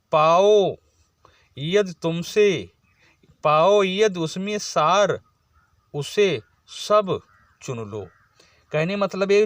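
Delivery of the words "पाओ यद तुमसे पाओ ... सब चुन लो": slow, drawn-out verse recitation; poem recital. Shown as a demonstration. Teacher reciting Kaikeyi's next verse to the class, slow recital. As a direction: stretch each phrase of the verse.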